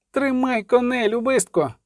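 high, urgent shouted command; urgent call, pitched well up; yelling order. A narrator's reading. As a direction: yell an order across the ferry. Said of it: "дерлася Мільва".

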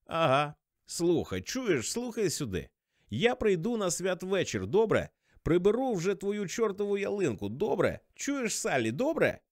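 put-on high, pestering drunk voice; drunken insistence. A narrator's reading. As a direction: nag for an answer like a tipsy caller. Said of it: "Ти що, п'яний".

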